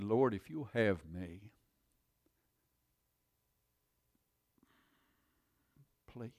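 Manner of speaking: slow plea fading to a whisper; whispered please save me; pleading prayer. Retold or imitated. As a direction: beg softly to be saved. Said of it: "And I said".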